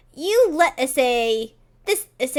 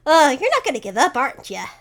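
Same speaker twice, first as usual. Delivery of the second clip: put-on old-timey voice; 2 semitones higher, much faster than usual. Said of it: "an old-timey voice".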